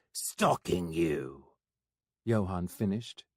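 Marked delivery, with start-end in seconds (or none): 0.1-1.5 slow, deflated admission; sheepish confession; deflating. Acted.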